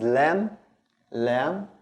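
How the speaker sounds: L of English in "lam"; light ordinary L starting "lam". Shown as a demonstration. Teacher introducing the letter lam, English-like L. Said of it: "the L in English".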